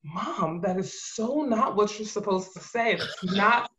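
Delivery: mock whiny protest. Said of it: "I'm calling home crying".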